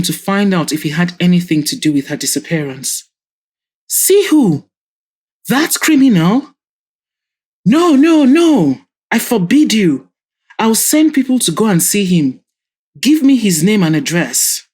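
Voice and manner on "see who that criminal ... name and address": high, loud outraged father; an angry father's high, loud outburst; furious shouting. Acted. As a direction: bellow it, forbidding her outright. Father erupts at daughter's plan.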